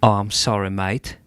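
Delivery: mock-British "mate" accent; mixed UK accent. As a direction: apologise in a muddled put-on UK accent. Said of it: "a mix of a fuckload of U K accents".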